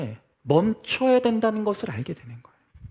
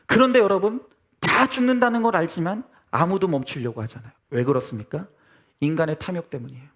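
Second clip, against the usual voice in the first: ordinary delivery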